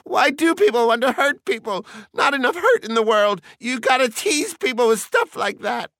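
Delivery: very high, loud outrage; indignant scolding. A narrator's reading. Missus Bowles scolds Montag for hurting people, indignant. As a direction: protest in high-pitched indignation.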